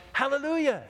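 highest, loud all-out yell; desperate shout. Acted. Rider at the cliff edge yells, loud high shout. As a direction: scream the word that stops him. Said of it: "Finally he yells".

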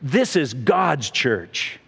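slow, emphatic retold rebuke; mildly indignant. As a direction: imitate a mildly affronted correction, weighting each word. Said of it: "the guy got kind of indignant".

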